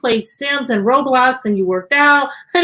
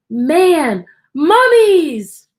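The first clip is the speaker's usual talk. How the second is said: spooky mummies; 4 semitones higher, 6 dB louder, much slower than usual. Pretend. Spooky book teaser.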